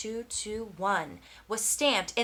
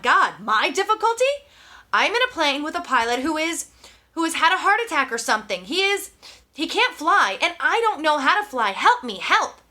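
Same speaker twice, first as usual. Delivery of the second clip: louder and higher, pleading for help; desperate plea; 5 semitones higher, 6 dB louder than usual. Acted. Brian telling the radio his pilot can't fly, desperate plea. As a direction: beg for help, voice straining.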